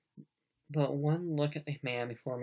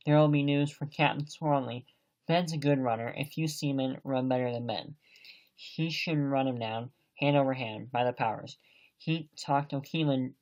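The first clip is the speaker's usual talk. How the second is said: a touch of excitement, louder at times; mildly excited; 3 dB louder than usual. Acted. Long John showing excitement to Jim about Black Dog, mildly excited. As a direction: fuss and bluster to put on a show. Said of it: "now quite excited".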